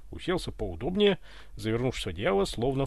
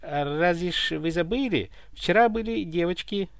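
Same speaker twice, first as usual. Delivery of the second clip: puzzled servant explaining; 5 semitones higher than usual. Acted. Baffled butler explains himself to tsar.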